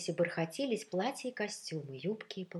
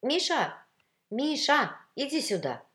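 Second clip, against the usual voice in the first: high, loud summons; calling out; 9 semitones higher, 8 dB louder than usual. Acted. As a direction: call someone over from another room. Woman calls Misha over.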